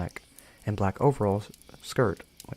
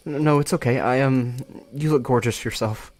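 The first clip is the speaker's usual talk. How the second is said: gay panic; 3 semitones higher, 3 dB louder than usual. Acted. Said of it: "filled with gay panic".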